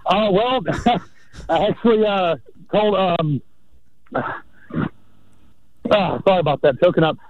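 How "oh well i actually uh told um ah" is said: breathless caller; winded from running around; out of breath. Real, not acted. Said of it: "Why are you so out of breath?".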